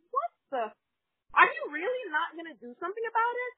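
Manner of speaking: high-pitched exasperated demand; acting out an indignant customer; incredulous. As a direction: challenge him in sheer disbelief. Retold disbelief at manager's refusal.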